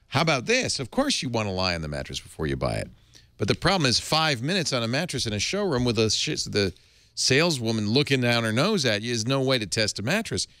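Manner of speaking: upbeat sponsor read. Acted. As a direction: sell it like a host ad. Reads Casper ad.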